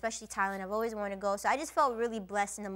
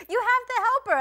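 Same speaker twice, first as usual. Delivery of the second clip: mock urgent plea; 13 semitones higher, 8 dB louder than usual. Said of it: "She's like".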